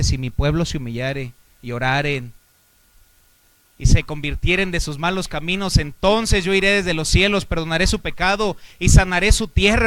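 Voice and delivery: rising into a loud, full-force sermon; preacher reading scripture with mounting fire; preaching. Acted. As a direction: build the verse up to a thunderous close. Preacher quoting scripture, building.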